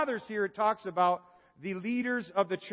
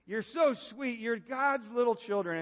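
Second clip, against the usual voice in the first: put-on southern accent; 7 semitones higher than usual. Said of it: "I almost hear a southern accent".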